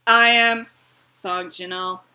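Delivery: slow, deliberate robot voice. Pretend. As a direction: speak like a stiff robot. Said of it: "talking to Robin in robot voice".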